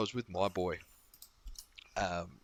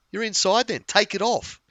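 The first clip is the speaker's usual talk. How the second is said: put-on child's voice; 12 semitones higher, 8 dB louder than usual. Kids telling the man off.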